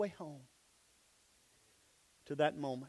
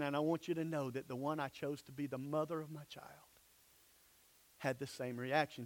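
fast, softer whispered confiding; God whispering reassurance to the listener; 6 semitones lower, 11 dB quieter than usual. Acted. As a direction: lean in and whisper it close. God's intimate confiding words.

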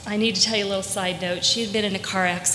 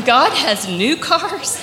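put-on higher and louder, laughing through "God has new cars?" in African English accent; laughing disbelief; 7 semitones higher, 7 dB louder, slower than usual. Catherine repeating it in joy, laughing higher and louder in African English accent.

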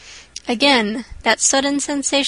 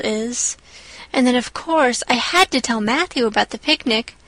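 put-on earnest young girl. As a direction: explain it all earnestly. Anne excuses herself.

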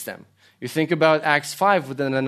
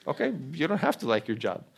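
quick, much softer patient aside; patient reassurance; 7 dB quieter, faster than usual. Pretend. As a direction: gently let them off the hook. Patient God answer, soft.

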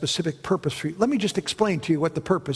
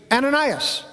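voice of God calling; 7 semitones higher than usual. Acted. God calling Ananias in vision.

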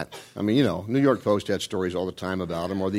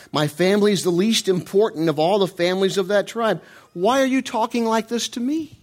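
humble Saul; 9 semitones higher, 3 dB louder than usual. Retold or imitated. Humble Saul answers Samuel.

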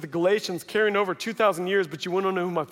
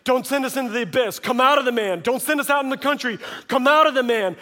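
raised, higher voice in a mock quarrel; heated argument; 5 semitones higher, 4 dB louder, faster than usual. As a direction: act out both sides, insistent and louder. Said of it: "there's this argument between he and the demons".

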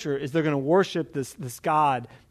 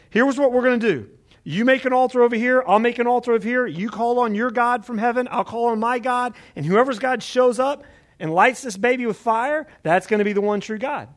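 higher-pitched, confident laying down of terms; bold challenge; 6 semitones higher than usual. Acted. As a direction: set out the contest like a showman. Elijah challenges Baal's prophets.

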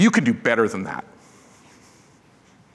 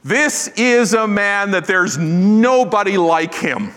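slow, higher, earnest praise; admiring Paul; 6 semitones higher, slower than usual. Retold or imitated. Paul praises Timothy to others: slow, heartfelt admiration. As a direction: savour each word like a proud mentor. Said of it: "And yet Paul says".

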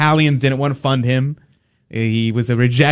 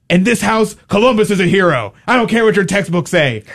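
imitating Italian dad; 7 semitones higher than usual. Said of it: "he goes".

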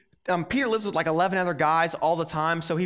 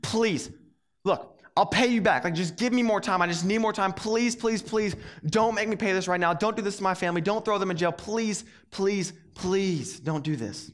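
imploring. Retold or imitated. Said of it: "he implores him and says".

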